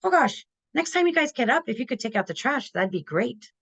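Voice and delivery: high, light opening settling into a casual request; friendly, unbothered nudge to teenagers; upbeat, easygoing ask. Shown as a demonstration. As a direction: keep the tone up, no begging. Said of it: "my face and my tone are up".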